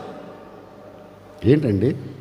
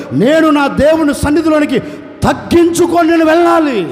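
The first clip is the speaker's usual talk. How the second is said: fervent declaration; 5 semitones higher, 4 dB louder than usual. Acted. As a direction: proclaim it at full force, rising to a shout. Abraham's fervent declaration, preacher at full force. (Abraham దేవునితో గట్టిగా ప్రకటిస్తూ, ఉద్రేకంతో అరుపు)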